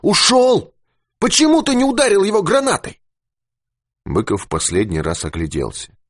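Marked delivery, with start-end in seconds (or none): 0.0-3.0 high, unsettled, odd cry; eerie high-pitched exclamation; strange voice. A narrator's reading. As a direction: sound not quite yourself. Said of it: "сказал он странным голосом".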